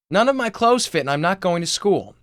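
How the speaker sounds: put-on high, loud teenage shriek from upstairs; shrieking sister. Sister yelling from upstairs that nothing fits, shrieking. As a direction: shriek it down the stairs, fed up. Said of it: "the shrieking voice of Gabriel's sister".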